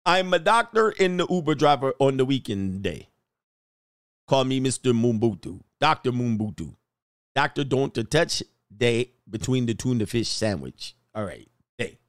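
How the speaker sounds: hammed-up South African accent, badly done; fake African accent. Doctor introducing himself as an Uber driver, fake African accent. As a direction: attempt an African accent that comes out Trinidadian. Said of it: "I sound like a fake Trini man, not an African".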